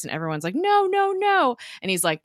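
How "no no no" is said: high, loud imitated pleading no; mock group protest. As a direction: wail it like everyone objecting at once. Everyone protests in retold scene.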